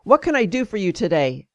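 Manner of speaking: brisk, sharp retold question; mildly sharp, businesslike demand. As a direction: imitate a doctor's sharp greeting. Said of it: "Then, in a sharp tone".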